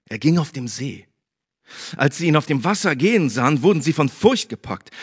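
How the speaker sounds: lively scripture reading to the congregation; Bible reading. Acted. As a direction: tell the gospel story with life. Reads Bible passage aloud. (lebendige Bibellesung)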